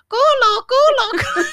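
put-on high, loud repeated kid's shout; imitated little brother. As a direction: keep yelling it like a naughty four-year-old. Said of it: "So he kept saying".

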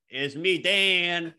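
slow, out of the side of the mouth; out of mouth corner. Shown as a demonstration. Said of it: "talk out of the side of your mouth".

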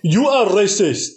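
lightly put-on Eskimo caricature; stilted attempt at an Eskimo accent; mock Eskimo accent. Offended Eskimo accuses host, mock Eskimo accent. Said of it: "Is that what Eskimos sound like?".

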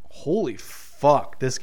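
drawn-out, slow awed curse; amazed. Retold or imitated. Watching Brody's flips, a slow awed curse. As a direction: let it stretch out in slow disbelief. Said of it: "I'm just like".

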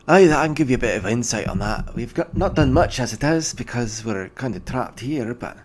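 a hint of a gruff dwarven clerk, pleased; dwarf official. GM as dwarf official greeting the party, lightly voiced.

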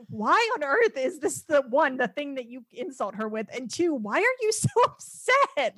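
mock disbelief. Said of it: "you're like".

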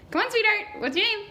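high-pitched, sugary coaxing; high, patronizing encouragement; coaxing sweetheart. Acted. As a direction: coax it out as if from a small child. Stranger coaxes shy player for name.

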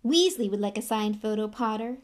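lightly mocking bully; a touch of smirking contempt. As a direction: tease with a smug edge. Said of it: "smirked Malfoy".

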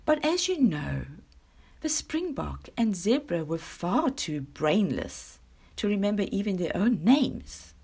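mildly haughty, measured address; a touch of lordly disdain. Acted. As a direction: open grandly, then look down on the others. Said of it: "he said in a haughty tone".

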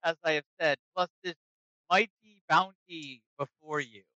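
a lightly voiced adventurer pledging allegiance; character voice. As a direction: pitch it up a bit and offer grandly. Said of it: "kinda to the dwarf and he says".

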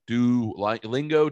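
Duolingo slowly felt out as "doo... LING-go"; slow down, groping for the "ling" in Duolingo; hesitant pronunciation. Shown as a demonstration. Trying out the app's name, Duolingo drawn out as "doo-ling-go".

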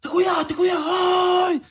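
agudo, burlándose con voz exagerada; voz chillona burlona. Pretend. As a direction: imita con voz aguda y amanerada. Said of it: "cómo que le vamos a poner esta voz". (voz aguda de burla)

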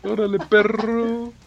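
voz chillona. Pretend. Joking reply in put-on voice.

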